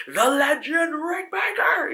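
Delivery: very high, loud fan squeal; starstruck cry. Retold or imitated. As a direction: gush like spotting a hero. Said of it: "I was like".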